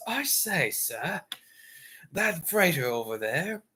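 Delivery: put-on British accent. Cruiser lookout reporting a freighter to his superior, British accent. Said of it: "I can probably do British a little bit".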